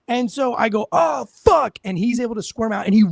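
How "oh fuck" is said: pained shout. Retold or imitated. Hand breaks mid-fight.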